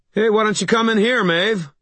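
high, quick shout outward; calling back. A narrator's reading. Harry to Maeve outside the cottage, calling back. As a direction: call it out high and brisk. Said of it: "I called back".

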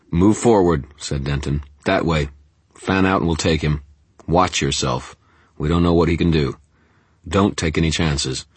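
firm, loud commands; commanding orders. Acted. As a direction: order the squad forward. Leader ordering armed men.

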